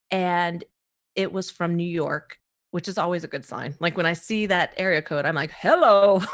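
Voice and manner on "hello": eager hello. Retold or imitated. Answering a New York call.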